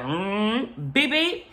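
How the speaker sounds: high playful beep beep like a car horn; mock horn beeps. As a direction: tap the horn in a silly high voice. Honking at the worker.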